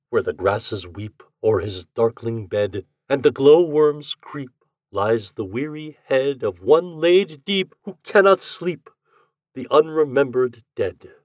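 slow, lilting poem recital; recited verse. A narrator's reading. Ghost reciting his verse to the lady, slow and lilting. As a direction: declaim the verse like a proud poet. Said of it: "some lines that occurred to me".

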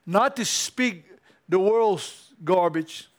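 slow, earnest closing prayer. Acted. Pastor praying over the congregation, slow earnest prayer. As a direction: pray over them, slowly.

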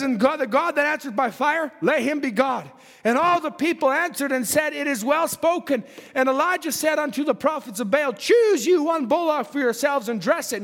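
declaimed Bible verse; scripture reading. Acted. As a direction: read scripture out to a congregation. Reads scripture in preaching voice.

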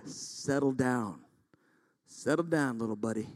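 easing off, patronizingly calm. Acted. God calming the worked-up preacher.

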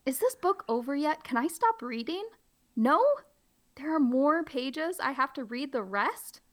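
high, whining reluctant reader; whiny pleading. Acted. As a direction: beg to stop reading. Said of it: "play it up and be funny".

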